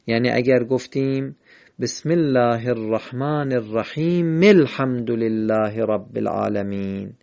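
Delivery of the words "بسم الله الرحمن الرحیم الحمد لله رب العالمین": slow recitation running "الرحیم" into "الحمد" as rahimel-hamd; measured chant-like joining, "الرحیم الحمد" as one phrase; verses joined. Shown as a demonstration. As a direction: link "الرحیم" to "الحمد" through its final short vowel, no pause. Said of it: "این حرکت استفاده شد و خوانده شد".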